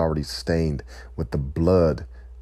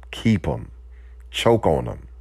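higher, biting dismissal; bitter retort; 5 semitones higher than usual. Real, not acted. Speaker rejecting a bogus apology, higher and bitter. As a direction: spit it back at the apologizers. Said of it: "That's a little bit harsh".

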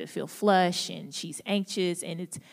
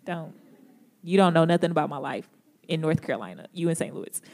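defensive retort; faster than usual. Retold or imitated. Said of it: "And I'm like".

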